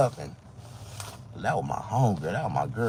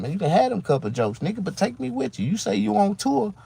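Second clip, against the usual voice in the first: retold plea; 11 semitones higher, 4 dB louder than usual. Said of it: "that's what I told him".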